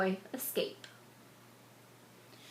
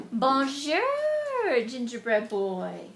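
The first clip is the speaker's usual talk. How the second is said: sly crocodile greeting; 4 dB louder than usual. Acted. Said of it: "said Monsieur Crocodile".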